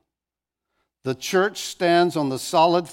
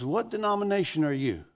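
higher-pitched retold question from an inmate; inmate's question; 4 semitones higher, 4 dB quieter than usual. Inmate asking the visiting student preacher, raised-pitch question. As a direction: ask it as the old inmate, voice lifted. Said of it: "He goes".

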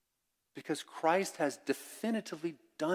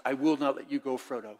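voicing Samwise, louder and insistent; a loyal friend's stubborn plea; earnest Samwise vow; 5 dB louder than usual. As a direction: hold on to Frodo and refuse to let go. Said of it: "he grabbed him and says".

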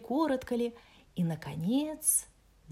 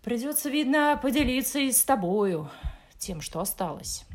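Askelad voice; 5 semitones higher, 7 dB louder than usual. Acted. Askelad answers the bear.

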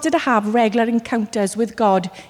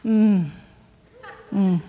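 embarrassed hum; 3 semitones lower, 5 dB quieter than usual. Shown as a demonstration. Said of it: "they do this".

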